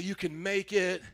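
slow, gentle reassurance; calm it down and comfort; reassuring encouragement. Shown as a demonstration. Pastor modeling comfort for the other neighbor.

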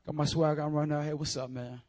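put-on low, casual teen swagger; mock high-school slang, tossed off softly; high schooler. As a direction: put on a too-cool schoolkid. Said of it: "my best impression of a high schooler".

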